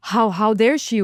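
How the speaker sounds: gasp, then mock-offended stammer; mildly acted indignant disbelief; retold shock. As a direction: imitate a shocked, affronted customer. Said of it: "And he was shocked".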